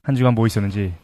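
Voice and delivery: quick, hurried repeat. Shown as a demonstration. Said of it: "좀 빠르게 한번".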